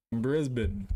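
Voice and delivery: Brisbane as BRIZ-bun, with a z and weak ending; second attempt. Shown as a demonstration. Trying another way of saying Brisbane.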